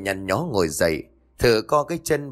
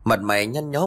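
ordinary delivery

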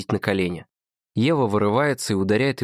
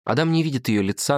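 usual speaking voice

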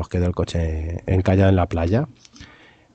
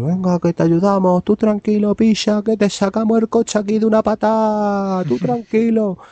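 put-on Andalusian kids; 11 semitones higher than usual. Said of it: "tío, todos".

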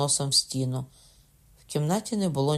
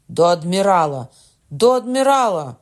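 loud cry rising much higher the second time; rally them, the second call higher; shouting, building; 4 semitones higher, 10 dB louder than usual. A narrator's reading. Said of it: "крикнув Кокона".

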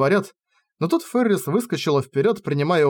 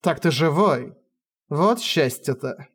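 dejected voice; slower than usual. Acted. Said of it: "Упавшим голосом сказала она".

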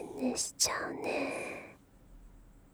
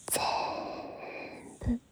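drawn out; slower than usual. Acted. Drawn-out soothing word.

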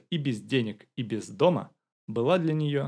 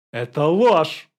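loud, higher indignant shout; 5 semitones higher, 12 dB louder, much slower than usual. A narrator's reading. Young man denying the money claim, loud shout. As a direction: fire back a loud denial. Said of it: "закричал Роман".

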